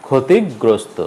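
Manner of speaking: ক্ষতিগ্রস্ত held on the g; ক্ষতিগ্রস্ত with a stop before "grosto"; doubled g. Shown as a demonstration. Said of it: "আবার বলছি, উচ্চারণটা হবে".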